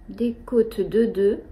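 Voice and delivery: slow, voiceless whisper of the phrase. Shown as a demonstration. Knitter repeating the rib pattern to viewers, slow whisper. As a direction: mouth the words slowly, no voice.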